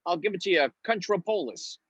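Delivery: a hint of a put-on doctor; doctor act. Doctor giving clerk his surname, lightly acted voice. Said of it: "I have to act like a doctor".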